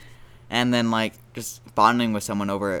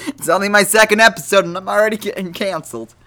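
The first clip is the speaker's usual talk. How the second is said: high, loud, hammed-up panicked squeal; mock panic; 11 semitones higher, 11 dB louder than usual. Podcaster fretting about getting cancelled, in a high loud mock-panicked squeal. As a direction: squeal it in fake alarm.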